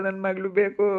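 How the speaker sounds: tearful, begging for her daughter; crying plea. Acted. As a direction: sob it out, pleading. Mother begging for missing daughter. (ಅಳುತ್ತಾ ಬೇಡಿಕೆ)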